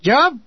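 high, emphatic "Job"; stressed repeat. A narrator's reading. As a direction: punch "Job" as an incredulous question. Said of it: "stressed the word and said it again".

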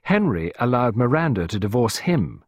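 a hint of combative firmness; belligerent. Clarissa to Costello, mildly belligerent. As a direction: stand your ground against him. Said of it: "Clarissa faced him belligerently".

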